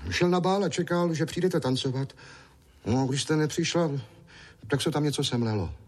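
put-on high, eager small boy's voice; little boy Ondroušek. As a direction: play a chatty little boy.

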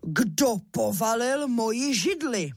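papa bear growling at his toppled chair; lightly voiced gruff father bear; big papa bear. A narrator's reading. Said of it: "rozkřičel svým silným medvědím hlasem".

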